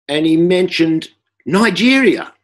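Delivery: ordinary talk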